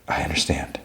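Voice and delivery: soft, hushed reply; gentle murmured understanding; retold whisper. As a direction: say it softly, barely above a breath. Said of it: "And Labibi whispers".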